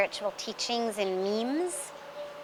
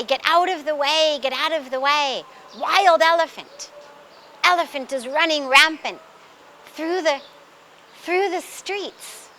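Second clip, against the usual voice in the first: louder, urgent street warning; crowd warning cry; 3 semitones higher, 4 dB louder than usual. Retold or imitated. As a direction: call out to clear the street. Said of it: "they hear this cry".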